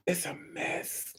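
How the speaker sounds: faint, breathy laughing aside; barely voiced after laughing; breathless whisper. Real, not acted. Recovering from laughter, whispering to her audience.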